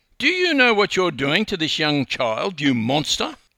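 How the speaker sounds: sharp snap. Maud turns on the narrator teaching a child to swim, snapping. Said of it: "she snapped at me".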